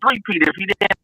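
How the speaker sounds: breaking-up, distorted call audio; choppy audio. Real, not acted. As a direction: sound like a bad connection. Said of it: "your audio is choppy".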